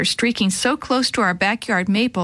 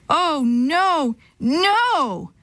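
rising horrified cry; 6 semitones higher, much slower than usual. Acted. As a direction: gasp it out in dread. Seeing plane crash.

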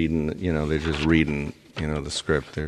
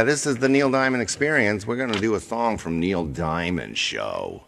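funny announcer voice; 3 semitones higher than usual. Pretend. Host introducing a show about a singer, put-on announcer voice. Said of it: "Why does he talk like that?".

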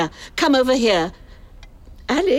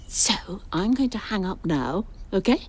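hurried goodbye; 2 semitones higher, 4 dB quieter than usual. Acted. Rushing off the Skype call.

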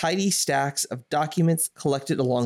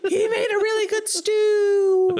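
high laughing delivery; 4 dB louder than usual. Real, not acted. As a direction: laugh through the words. Laughing through line.

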